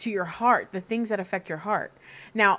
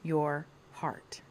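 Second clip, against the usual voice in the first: slow breathy whisper; dramatic whisper; 4 semitones lower, 9 dB quieter, much slower than usual. Acted. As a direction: whisper it like a secret.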